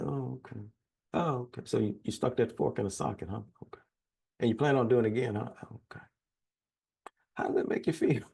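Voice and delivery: mock therapist. Mock therapist humoring family.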